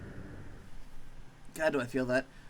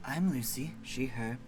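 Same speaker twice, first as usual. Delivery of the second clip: lower, soft easygoing monster; mellow monster; 3 semitones lower, 5 dB quieter than usual. Acted. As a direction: shrug it off lazily. Lucy the monster.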